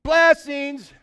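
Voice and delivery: high, loud, drawn-out blurt; involuntary mock shout. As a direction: blurt it out long and loud, against your will. Curse comes out as blessings again.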